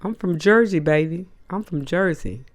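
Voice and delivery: a hint of a scared woman bluffing tough; scared Wendy Williams. Wendy Williams backing down to a singer, mock bravado. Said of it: "Wendy was like".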